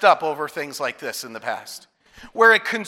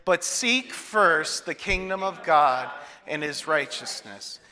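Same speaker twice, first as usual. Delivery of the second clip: slow, deliberate verse recitation; slow group recitation; 4 semitones lower, 5 dB quieter, slower than usual. Shown as a demonstration. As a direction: lead the room through it slowly. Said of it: "Can we say that together?".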